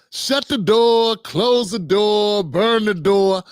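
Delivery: each door line drawn out slowly; slow deliberate repeat. Shown as a demonstration. Commentator drilling the door phrases slowly for viewers. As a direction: lay out each command slow and flat. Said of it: "All of those sound the same to people's ears".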